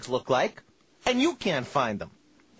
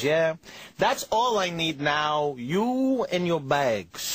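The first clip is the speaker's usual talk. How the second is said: dismissive clerk; much slower than usual. Retold or imitated. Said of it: "The person goes".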